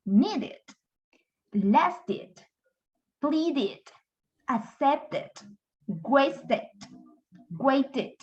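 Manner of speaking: needed, lasted, wasted with a full extra -ed syllable; sounded -ed ending. Shown as a demonstration. Teacher lists verbs whose E D sounds, each ending fully voiced. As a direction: say "needed, waited" in two clear syllables, one at a time. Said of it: "podemos nosotros con toda confianza decir".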